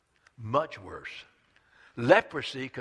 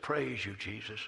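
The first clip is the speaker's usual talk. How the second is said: hushed praise; 4 semitones lower, 8 dB quieter than usual. Acted. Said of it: "he just said".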